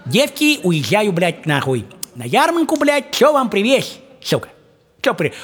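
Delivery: high mock father's voice; father asking. Father asks his daughters what to bring, high mock voice. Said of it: "вот он говорит".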